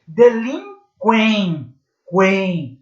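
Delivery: delinquen slowed, then quen repeated alone; slow syllable demo. Shown as a demonstration. Teacher isolates the nasal triphthong syllable. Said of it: "Nós temos aí um tritongo".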